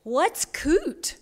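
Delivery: puzzled high question from the pastor; perplexed. Acted. Pastor puzzling over a strange word, baffled. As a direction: ask it baffled, pitch jumping up. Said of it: "Perplexed, the pastor asks".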